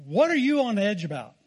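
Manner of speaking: hammed-up wifely challenge; overly dramatic. Husband imitating his wife's question in the car, overly dramatic. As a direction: push the question a bit too dramatically. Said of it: "that's kinda dramatic".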